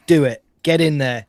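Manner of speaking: loud, punchy urging; sales endorsement. Pretend. Co-host urging listeners into member section, loud sales push. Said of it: "Sell it, bro. Sell it".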